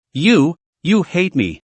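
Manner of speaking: slow, stammering through tears; a mild sob caught on the repeated you; tearful stammer. Acted. Shark stunned by her rejection, slow tearful stammer. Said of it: "stopped dropping her little pearls".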